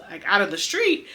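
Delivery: ordinary delivery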